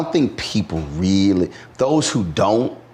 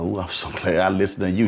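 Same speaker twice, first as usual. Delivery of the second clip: grateful woman; faster than usual. Retold or imitated. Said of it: "she like".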